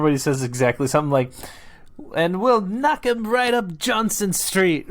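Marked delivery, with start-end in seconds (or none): 2.1-4.9 high, slow mock-Scottish quote; imitated Scottish accent. Co-host recalling a voice actor's line, imitated Scottish accent. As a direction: put on a drawn-out Scottish accent, pitched up. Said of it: "that great Scottish accent".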